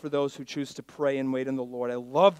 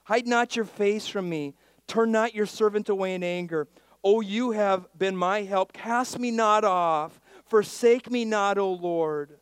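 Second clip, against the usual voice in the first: raised, high-pitched plea; David's fervent prayer; 8 semitones higher, 9 dB louder than usual. Acted. David begs God not to forsake him, fervent prayer. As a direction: pray it out loud and urgent, stretching the final pleas. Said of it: "This is his prayer".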